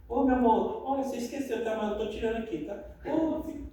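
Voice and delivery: soft, sweet little reminder to the wife; gentle reminder. Pretend. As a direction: nudge her kindly, no edge. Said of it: "Dá uma ale-, um alertinho".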